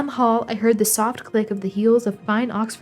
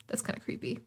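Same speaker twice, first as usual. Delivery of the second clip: whispering; 17 dB quieter, faster than usual. Real, not acted. Creepy piano suddenly stops.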